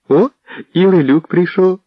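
high, loud happy shout; joyful exclamation. Acted. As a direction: call out in glad surprise. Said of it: "радісно вигукнула вона". (радісно вигукнула, високо й гучно)

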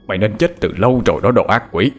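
quick, restrained growl of hatred; resentful growl. Acted. Husband cursing his dead wife, resentful growl. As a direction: growl out a curse in a changed voice. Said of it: "gầm lên những câu oán hận".

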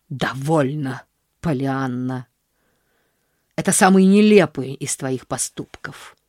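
lightly voiced stern aunt scolding; a hint of a cold, indignant aunt. Aunt scolding niece for bringing home a beggar, stern.

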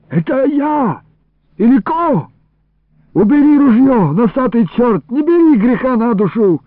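high, urgent crying out; panicked protest. Acted. Iliko to the gunman from inside the jug, panicked protest. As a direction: plead and scold in a high voice. Trapped man begs at gunpoint.

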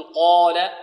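slow "قال" with a thick, dark long vowel; full-mouthed "qaw-la"; heavy long A. Shown as a demonstration. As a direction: draw out heavy "قَا" in "قال". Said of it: "تتبع ما قبلها تفخيما".

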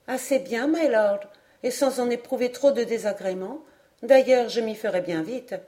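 jeune fille polie. Acted. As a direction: politely reassure in a slightly girlish voice. Narrator voices the young woman. (jeune fille confiante, voix plus haute)

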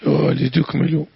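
ولتكملوا said litukmilu, with one light mim; no doubling, k runs straight into m in ولتكملوا; light single mim. Shown as a demonstration. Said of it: "بالتخفيف".

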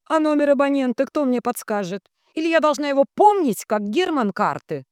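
high, overwrought suffering question; strained, long-suffering complaint; anguished. A narrator's reading. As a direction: ask as if tormented, voice pushed high. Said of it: "спрашивает с надрывом и страданием".

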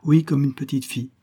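lightly teasing, a smile in the voice; mischievous smile. Acted. Young woman teasing Démosthène back, a sly smiling reply. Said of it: "en souriant malicieusement".

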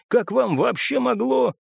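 high, outraged exclamation; choked indignation. A narrator's reading. Bessik outraged at the narrator's suggestion, high and indignant. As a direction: protest as if nearly choking with outrage. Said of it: "Он едва не задохнулся".

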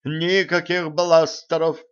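categorical. A narrator's reading. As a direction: lay down the rule firmly, drawing out the words. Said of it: "категорично заявил профессор".

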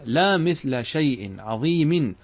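slow, measured reading of the paraphrase; slow demonstration reading. Shown as a demonstration. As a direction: read it out slowly so they follow. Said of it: "كأنك قلت هكذا".

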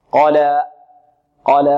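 held, untilted vowel ending قال; open final alif. Shown as a demonstration. Teacher showing the ending without hamza, open alif. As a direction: say قال as "qalaa", final a open, no glottal stop. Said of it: "لا نختمها بهمزة".

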